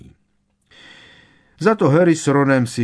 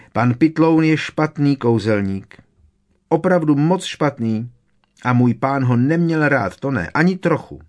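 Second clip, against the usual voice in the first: high, loud, indignant elf voice; cross house-elf; 7 semitones higher, 6 dB louder than usual. A narrator's reading. Winky condemns the bad wizard her master disliked, angrily. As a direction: denounce him in a high elf voice. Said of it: "se znovu zatvářela rozzlobeně".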